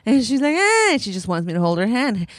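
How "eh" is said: put-on high whiny child's eh; imitating a whining toddler; toddler whine. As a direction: whine like a clingy little girl.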